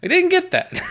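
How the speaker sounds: high, laughing letdown. Real, not acted. Laughing disappointment.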